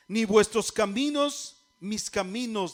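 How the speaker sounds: measured, emphatic Bible reading; scripture reading. Real, not acted. Preacher reading Isaiah to congregation, emphatic proclamation. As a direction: proclaim the verse phrase by phrase.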